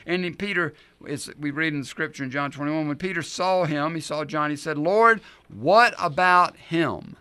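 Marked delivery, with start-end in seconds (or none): 4.8-7.2 louder, slow, drawn-out question; distracted plea. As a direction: blurt it out pointing at John. Peter distracted, asks about John.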